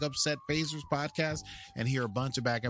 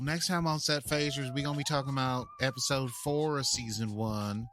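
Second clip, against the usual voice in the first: put-on southern accent. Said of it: "In my southern accent".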